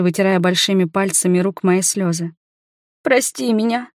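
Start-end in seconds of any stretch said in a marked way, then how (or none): 3.0-3.9 mild tearful plea, pitched up; a touch of sobbing through the apology; a woman apologising through tears. A narrator's reading. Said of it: "всхлипывая".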